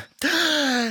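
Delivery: sharp high gasp of delight; excited gasp. Acted. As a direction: gasp as a song takes hold. Excited gasp before song.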